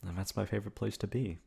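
a shy, emotional lover, happy and nervous in turn; tender girlfriend confession. Acted. Girlfriend hoping her partner means it, tender and emotional. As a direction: play the girlfriend who can't believe she's wanted.

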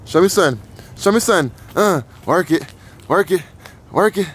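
high, sing-song cheering; cheering her on. Real, not acted. Dad cheering his baby to dance, high sing-song.

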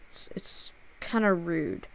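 whispered, under his breath. Real, not acted. Streamer mutters to the troll that it's rude, whispered. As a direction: breathe it out, barely voiced. Quiet aside to the harasser.

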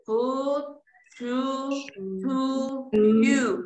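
"Food, to, to, you" each with a long, tight oo; closed U. Shown as a demonstration. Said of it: "grupo de la U cerrada".

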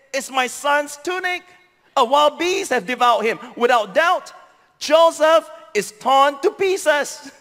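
rising into a grieving shout; a father's sudden anguish, building to a cry. Acted. Jacob grieving over tunic.

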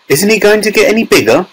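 high, quick mild shout. A narrator's reading. Father dismayed at tiny son, high hurried shout. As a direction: blurt it out fast, pitched high. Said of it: "shouted Mister T V".

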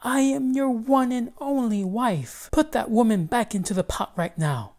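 jealous wife orders him, loud and high; angry cry. Acted. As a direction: demand it furiously. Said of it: "the first Missus Haktak cried".

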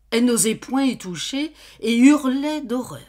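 high, loud horror in the telling; horrified narration. A narrator's reading. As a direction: let the horror break into the narration.

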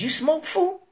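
high-pitched, rising question. Retold or imitated. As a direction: lift it up into a pointed query. Retelling the question, misread as challenge.

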